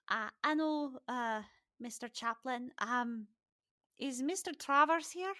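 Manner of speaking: uneasy youngster among grown-ups; nervous boy. Acted. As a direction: stammer out a timid, polite question. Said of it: "kind of nervously".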